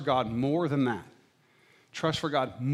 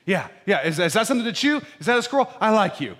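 happy dog voice; 7 semitones higher, 7 dB louder, faster than usual. Retold or imitated. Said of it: "They're like".

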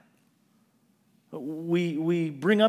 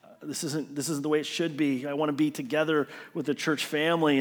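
depressed muttering; 4 dB quieter than usual. Retold or imitated. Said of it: "I was just depressed".

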